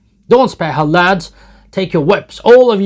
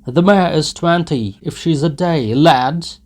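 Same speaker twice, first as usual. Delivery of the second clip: loud, higher jeering; mocking crowd shouts; 7 semitones higher, 12 dB louder than usual. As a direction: jeer loudly at the old nag.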